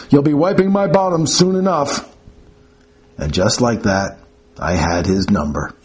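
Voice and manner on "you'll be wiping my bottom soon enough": put-on sardonic old patient. Cranky patient taunting nurse.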